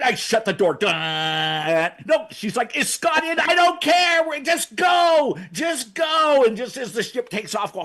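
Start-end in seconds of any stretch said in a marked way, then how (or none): 2.8-6.4 mock panic. Panicked order to leave.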